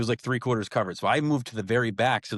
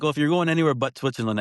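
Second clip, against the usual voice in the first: quick doctor voice; 5 semitones higher, faster than usual. Retold or imitated. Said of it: "And he's like".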